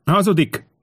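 high, desperate outcry; high-pitched frantic denial; desperate shout. A narrator's reading. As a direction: cry out the accusation in despair. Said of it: "ordította a herceg kétségbe esetten".

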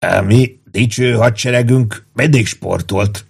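slow, distinct delivery; measured, fully intelligible statement; clearly articulated. A narrator's reading. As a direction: say each word clearly and unhurriedly. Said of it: "mondta tisztán érthetően".

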